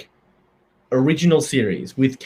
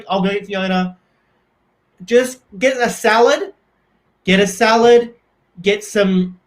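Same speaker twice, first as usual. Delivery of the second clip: Forrest Gump impression; 5 semitones higher than usual. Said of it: "here's my Forrest Gump impression".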